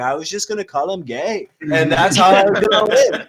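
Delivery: lightly voiced Trump, rambling and boastful; a hint of Trump bragging about the campaign; Trump impression. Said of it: "That's a spot on Trump".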